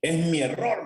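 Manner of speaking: high, hurried apology in a flustered woman's voice; desperate young woman. Retold or imitated. Purchasing clerk apologizing to the engineer, high and flustered. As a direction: play the panicked buyer owning her mistake. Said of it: "aquella muchacha desesperada me dice".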